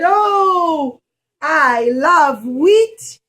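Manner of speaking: loud, slow "I love wheat"; delighted baker. Acted. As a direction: savor it like a happy baker.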